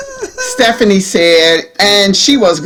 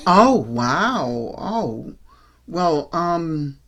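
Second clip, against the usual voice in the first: concerned; 4 semitones lower, 7 dB quieter, slower than usual. A narrator's reading. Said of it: "Stephanie seemed genuinely concerned".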